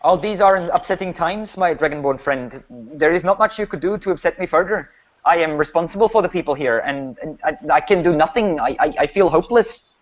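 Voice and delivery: hopeless village baron. Acted. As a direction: play a burdened leader admitting helplessness.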